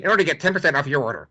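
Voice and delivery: rapid-fire, lightly voiced pundit; a hint of a fast-talking pundit pitch; Ben Shapiro voice. Shown as a demonstration. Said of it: "do it in my Ben Shapiro voice".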